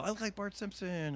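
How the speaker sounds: deadpan joke line. Retold or imitated. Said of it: "I'd hit the side profile".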